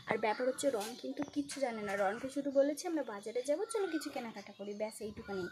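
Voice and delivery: low, very soft confiding voice; quietly letting viewers in on the plan; hushed secret. Real, not acted. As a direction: keep it down so nobody nearby overhears. Sharing surprise secret while partner nearby.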